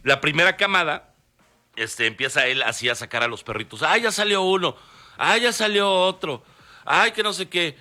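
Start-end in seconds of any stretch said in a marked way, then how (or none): 3.8-7.8 higher, fluttery nervous exclamations; nervous excitement. Retold or imitated. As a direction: imitate a jittery friend at the birth. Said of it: "así todo nervioso".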